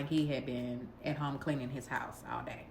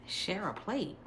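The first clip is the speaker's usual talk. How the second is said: "Share a plate?" asked higher, in disbelief; incredulous echo; 5 semitones higher, 3 dB quieter, slower than usual. Retold or imitated. Repeating the date's share-a-plate offer back, incredulous. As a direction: repeat his words like you can't believe them.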